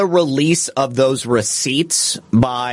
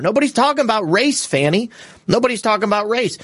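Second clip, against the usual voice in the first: exasperated retort; 6 semitones higher, faster than usual. Real, not acted. Host rebuts the racism claim.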